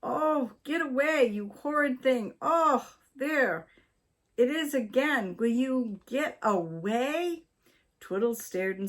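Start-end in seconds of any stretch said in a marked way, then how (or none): 0.0-7.4 high flustered cry at a firework; shooing in alarm. A narrator's reading. Wife shooing a firework at her toes, high flustered cry. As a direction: shoo the horrid thing off, rattled.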